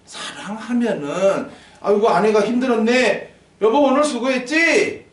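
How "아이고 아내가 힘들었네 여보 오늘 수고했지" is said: higher, fussing sympathy for the wife; doting husband. Acted. Preacher plays husband consoling tired wife, doting. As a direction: act out a solicitous husband.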